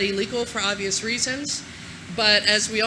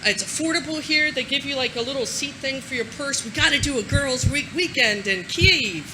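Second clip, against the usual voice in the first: light mock girlfriend chatter, a little higher; a hint of excited girls'-trip gushing; girly chatty tweet; 3 semitones higher than usual. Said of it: "tweeted to my girlfriends going".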